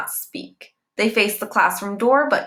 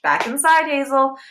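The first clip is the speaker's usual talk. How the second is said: raised, clipped order back inside; firm cutting off; 7 semitones higher, 4 dB louder than usual. A narrator's reading. Teacher sending the tattling girl back into class, raised and firm. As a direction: shut her down firmly.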